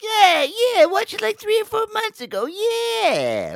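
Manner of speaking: mocking falsetto imitation; high-pitched mimicry. Retelling a friend's maddening answer, mock high voice.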